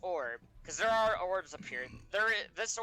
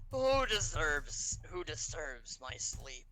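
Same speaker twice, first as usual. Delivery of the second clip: waking dragon whisper; slower than usual. Acted.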